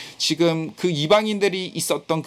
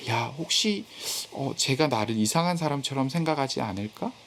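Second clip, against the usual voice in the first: softly imitated self-conscious worry; worried inner voice; 6 dB quieter than usual. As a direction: voice a hushed, mildly anxious thought to yourself. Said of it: "그렇게 염려돼서".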